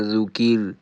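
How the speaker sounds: thin, light R closing ذو کیل. Shown as a demonstration. Teacher repeating the stopped form, light R. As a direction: stop ذو کیل on a thin, vowelless R.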